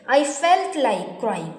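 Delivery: very slow and deliberate; slow model sentence. Shown as a demonstration. Teacher models the past form for students, very slow. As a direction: spell it out word by word. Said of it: "बोलेंगे".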